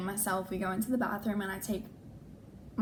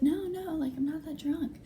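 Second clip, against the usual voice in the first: higher, mock drunk protest; tipsy friend protesting; 7 semitones higher than usual. Drunk friend in the bathroom insisting she's sober, mock tipsy.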